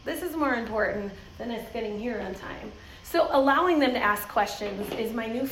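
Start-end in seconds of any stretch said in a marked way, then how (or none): 0.1-2.7 calm rethink. Retold or imitated. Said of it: "you have to go".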